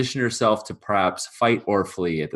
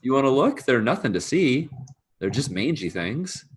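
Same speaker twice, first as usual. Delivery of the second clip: lightly raised, dismissive voice; nervous servant excuse; 5 semitones higher than usual. Acted. Servant plays down mushrooms to farmer, nervous. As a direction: play it down to the farmer.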